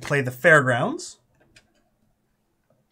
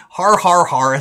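mock evil laugh; 4 semitones higher, 9 dB louder, slower than usual. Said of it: "That's not very evil".

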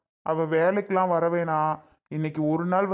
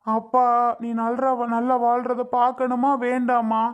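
higher-pitched, weepy father's plea; tearful pleading; 4 semitones higher than usual. Acted. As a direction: beg your child through tears. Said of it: "உன் அப்பா இது வரைக்கும் இப்படி அழுது". (அழுது கெஞ்சும் குரல்)

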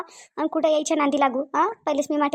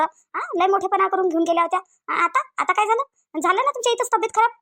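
raised-pitch indignant reproach; accusing; 5 semitones higher than usual. Acted. Mother scolding in-law over sick daughter, accusing. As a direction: throw the blame at the in-law, pitch climbing.

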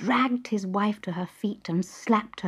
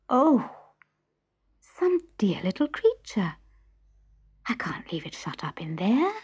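breathy whisper of curiosity; hushed wonder. Acted. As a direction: whisper it as if afraid to be heard. Pandora's hushed wonder at box.

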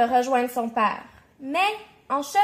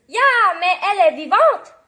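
loud yelp of astonishment; startled exclamation; 4 semitones higher, 8 dB louder than usual. A narrator's reading. Lady finds the doll is alive, startled cry. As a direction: cry out in shock, rising at the end. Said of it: "s'écrie la dame".

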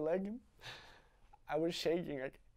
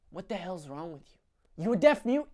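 berating father; 3 semitones higher, 4 dB louder, slower than usual. Acted.

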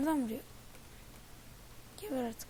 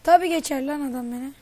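louder bitter complaint; indignant outburst; 8 dB louder than usual. Real, not acted. Gamer venting after an enemy passes him, indignant. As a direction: vent that the guy got past you.

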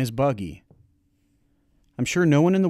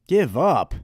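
loud, higher sharp bark of disbelief; 6 semitones higher, 7 dB louder than usual. Acted. Grandpa barking at the boy who wants to quit. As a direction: snap the words back at him. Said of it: "Grandpa barked".

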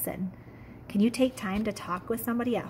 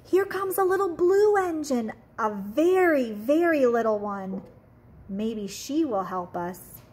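clown calling out; 2 semitones higher, 4 dB louder than usual. Acted. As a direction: call out like an eager little clown. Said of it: "clown called out".

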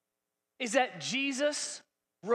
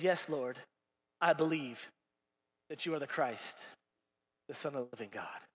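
lower, softer, reverent; quiet confession; 10 semitones lower, 8 dB quieter than usual. Acted. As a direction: say it softly, almost under breath. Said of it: "She says".

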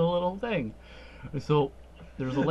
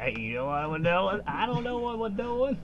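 silly high voice; 8 semitones higher than usual. Pretend. Voicing confused game characters.

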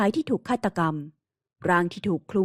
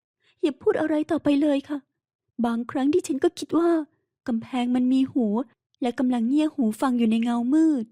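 lightly raised, wounded woman's voice; a hint of an anguished heroine; hurt young woman; 4 semitones higher than usual. Heroine fears listening walls. (น้ำเสียงหญิงสาวเจ็บปวดแบบเบาๆ)

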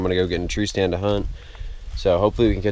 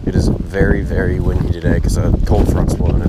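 shouting over wind; 7 dB louder than usual. Real, not acted. Very windy, talking over wind.

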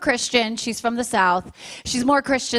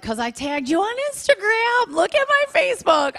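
rising to a shrill-free shout, much higher; mock yell at the kid; 9 semitones higher than usual. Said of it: "I was like".

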